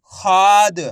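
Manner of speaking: खाद with a long, drawn-out खा; stretched syllable. Shown as a demonstration. Teacher showing learners how to read it, stretched syllable. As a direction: stretch the आ in खाद before closing on द. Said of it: "खा को खींच के पढ़ेंगे".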